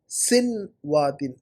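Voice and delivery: سنواتن very slowly as "sin-waa-tin"; mispronunciation. Shown as a demonstration. Teacher repeats what student wrote, mispronunciation. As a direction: stretch out سنواتن with "sin" at the start. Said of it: "سنواتن نہیں".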